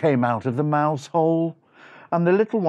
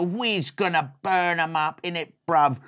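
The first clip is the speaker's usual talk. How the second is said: lightly voiced street-slang mouse; a touch of swagger, at normal pitch; cocky brother. Mouse brother planning a chicken chase, cocky. First brother, contrasts with deep reply.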